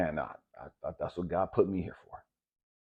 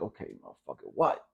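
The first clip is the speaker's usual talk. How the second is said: annoyed; 6 semitones lower than usual. Retold or imitated. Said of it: "Now I'm pissed".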